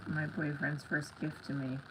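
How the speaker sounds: normal talking voice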